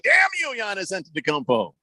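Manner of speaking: high hammed-up shake of the fist; mock outrage at the star player; mock curse. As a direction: curse him out in jest, starting high. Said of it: "It's like".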